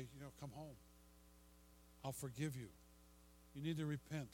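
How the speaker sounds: tender invitation. Acted. God voiced calling son home.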